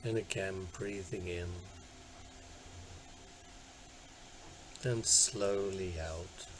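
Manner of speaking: unhurried guiding voice with long pauses; guided meditation. Acted. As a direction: gently talk listeners into settling down, leaving space between phrases. Leads a body scan meditation.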